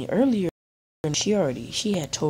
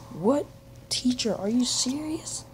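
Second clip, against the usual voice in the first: higher-pitched imitated protest; mock outrage; 9 semitones higher, slower than usual. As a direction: play up the friend's indignant disbelief. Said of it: "that made him pretty mad".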